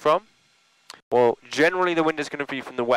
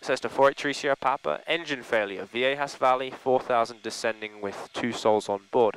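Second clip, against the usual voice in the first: Mayday call. Shown as a demonstration. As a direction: demo pilot Mayday radio call. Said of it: "So then you would say".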